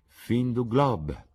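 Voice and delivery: high, loud, very drawn-out French; emphatic retort. Acted. Hostess capping the lord's remark, emphatic retort. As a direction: stretch the phrase out theatrically.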